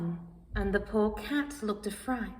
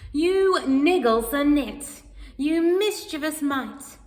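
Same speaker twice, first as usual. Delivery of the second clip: a cross cat scolding a flea; angry scolding; 4 semitones higher, 5 dB louder than usual. Acted. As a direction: tell the flea off in a huff.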